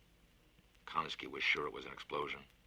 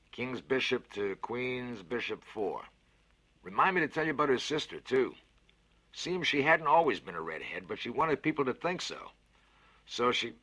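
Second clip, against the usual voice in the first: a big cheerful voice, lifted and louder; hearty Fats, louder and higher; 8 semitones higher, 8 dB louder than usual. Acted. Fats cheers up the scared boy with a bet, hearty and loud. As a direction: sell the bet with gusto. Konski rambling story.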